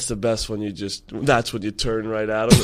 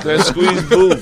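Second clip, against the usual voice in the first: exaggerated Asian accent, higher and louder; 6 semitones higher, 6 dB louder than usual. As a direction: put on a mock Asian accent for the quote. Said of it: "Oh, you have an Asian accent now?".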